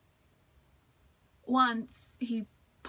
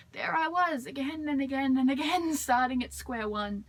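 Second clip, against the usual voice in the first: exasperated; 3 semitones higher than usual. Acted. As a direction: pile up each repeat in frustration. Exasperated at having to repeat herself.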